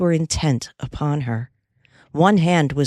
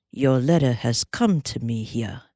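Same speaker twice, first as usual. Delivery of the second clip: cowboy calming Molly, gently; gentle; 4 semitones lower than usual. Acted. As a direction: ease back into a low, gentle tone. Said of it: "gentle again".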